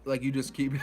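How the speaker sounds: usual speaking voice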